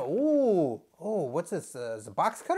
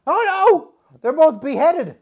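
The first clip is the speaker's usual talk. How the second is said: mock horror; 8 semitones higher, 8 dB louder than usual. Both screwdrivers beheaded.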